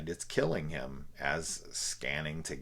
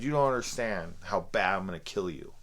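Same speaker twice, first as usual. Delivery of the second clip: mocking childish threat; 4 semitones higher, 4 dB louder than usual. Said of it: "like a comeback from, like, a ten-year-old".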